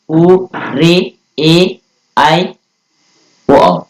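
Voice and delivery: each vowel stretched very slowly; drawn-out long vowels. Shown as a demonstration. Teacher reciting the long vowels to the class, slowly stretched. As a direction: hold every long vowel out. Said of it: "ये कुल मिलाकर के सात प्रकार के होते हैं".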